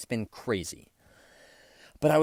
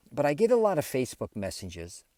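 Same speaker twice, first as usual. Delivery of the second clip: talking with food in mouth; words round a mouthful; mouth full; 4 semitones higher than usual. Real, not acted. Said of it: "I had something in my mouth".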